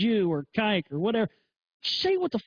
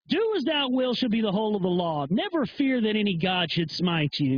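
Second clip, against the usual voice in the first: Crowley quote. Acted. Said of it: "I'll go Crowley on that one".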